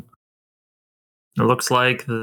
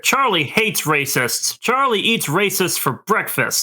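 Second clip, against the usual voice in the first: Charlie character voice; 5 semitones higher than usual. Acted. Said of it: "Voice acting".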